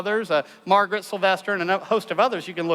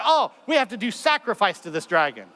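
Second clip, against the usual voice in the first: villagers' decision. Acted. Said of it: "And so they decided".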